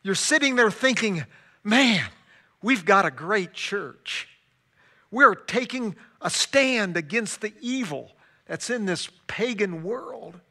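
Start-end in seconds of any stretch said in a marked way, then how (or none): 1.6-10.4 louder, proud boast about the church; proud churchgoer. Retold or imitated. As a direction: crow about how great your church is. Congregant's imagined proud thoughts.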